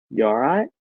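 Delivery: mock British accent. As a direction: put on a British accent with a rising end. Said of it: "British would be like".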